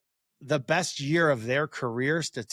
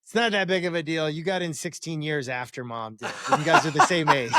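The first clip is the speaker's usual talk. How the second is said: deadpan teasing daughter; 2 semitones higher than usual. Retold or imitated. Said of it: "she's like".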